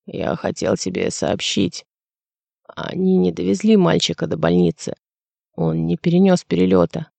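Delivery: Weidemanis's grieving voice on the phone; sad voice. A narrator's reading. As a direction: deliver bad news sadly. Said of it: "печальный голос Вейдеманиса".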